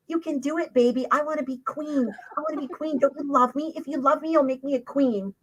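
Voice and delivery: high-pitched mock wheedling wife; nagging wife. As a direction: coax and whine like a pushy wife begging for a crown. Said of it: "his little wife nattering in his ear with the whole".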